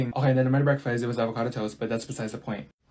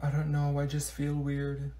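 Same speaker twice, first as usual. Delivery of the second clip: slow and much softer, droopy; mopey sad; 2 semitones lower, 8 dB quieter, slower than usual. Acted. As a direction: drag each word like nothing matters. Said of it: "She looks so sad".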